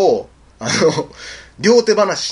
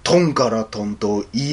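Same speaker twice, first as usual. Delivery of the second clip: low, slow menacing order; drawn-out low creature voice; monster's command; 4 semitones lower, slower than usual. Retold or imitated. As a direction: intone it like a bogeyman making a demand. Monster commands at sword point.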